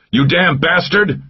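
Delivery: high, slow angry yell; furious yell. A narrator's reading. Mac yelling at the traitor Molinas, furious. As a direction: spit it in his face. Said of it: "yelled in his face".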